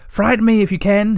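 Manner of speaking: high, bright-spirited dare; a gleeful high challenge to the wind; happy. A narrator's reading. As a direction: toss it at the storm gleefully. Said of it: "he thought happily".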